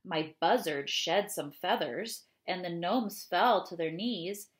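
expressive read-aloud of a rhyming poem. Acted. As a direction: read it to the children with lively rhythm. Reads ogre poem aloud.

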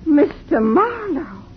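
tearful. Acted. Frightened woman pleads.

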